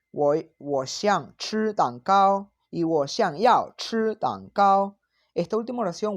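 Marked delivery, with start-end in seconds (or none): 0.1-5.0 slow "我想吃蛋糕", gentle and wishful; softer wish. Shown as a demonstration. Teacher modelling the gentler wish form. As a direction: voice a wish, not a demand. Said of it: "es más bien un deseo".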